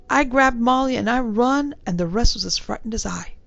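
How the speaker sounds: a hint of a respectful London bellboy; young servant answering his gentleman in a light Cockney. Thomas admits he ran.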